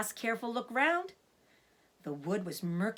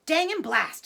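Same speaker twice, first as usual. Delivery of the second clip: higher, louder angry curse; cursing farmer; 9 semitones higher, 10 dB louder than usual. Acted. Bogus curses after missing the fox, angry and loud. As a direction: spit out the curse in frustration.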